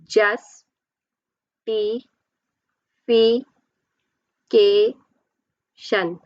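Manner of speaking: "Just, ti, fi, ke, shan" in five spaced beats; syllable by syllable. Shown as a demonstration. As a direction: sound out each syllable with a long gap. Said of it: "How many syllables?".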